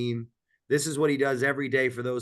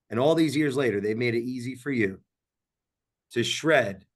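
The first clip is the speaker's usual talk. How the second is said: commercial read. Pretend. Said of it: "I'm trying to do my commercial right now".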